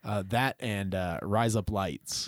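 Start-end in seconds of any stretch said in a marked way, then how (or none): 1.2-2.3 slow, lower Australian accent demo. Shown as a demonstration. Showing the co-host a fun fact, slow Australian accent. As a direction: razor blades said as if Australian, slowly. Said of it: "In an Australian".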